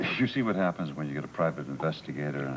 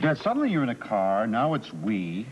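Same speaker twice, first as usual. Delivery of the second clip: rising anger, "what the hell" pushed higher; exasperated accusation; 4 semitones higher than usual. Acted. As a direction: call out the lie, higher and faster. Interrogator catches witness lying.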